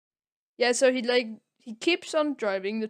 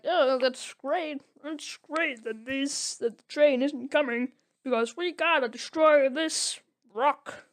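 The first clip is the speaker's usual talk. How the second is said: cheery worker voice; 4 semitones higher than usual. Retold or imitated. Workers' cheery quote, acted.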